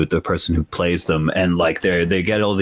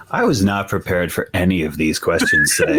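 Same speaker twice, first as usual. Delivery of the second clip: laughing. Real, not acted. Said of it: "Oh my God".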